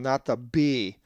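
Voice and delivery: ordinary talk, nothing marked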